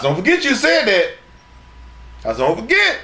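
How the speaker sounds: mocking. Mocking retort.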